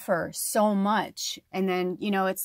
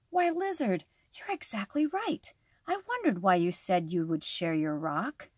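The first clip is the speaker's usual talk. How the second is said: taken aback; 3 dB quieter than usual. Acted. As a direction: caught off guard. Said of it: "Snake was taken aback".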